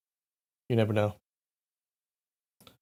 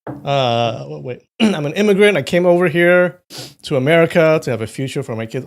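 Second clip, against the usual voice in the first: a hint of a scolding immigrant father, louder on the immigrant part; lecturing immigrant dad; 4 semitones higher, 4 dB louder than usual. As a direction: mildly voice dad's lecture about coming to America. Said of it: "He's like".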